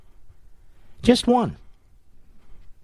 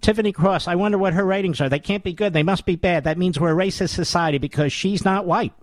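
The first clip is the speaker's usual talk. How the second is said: higher, quick mocking patter; lightly voiced mock impression; mocking Tiffany Cross; 4 semitones higher than usual. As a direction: rattle it off to mock her. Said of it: "who talks like this".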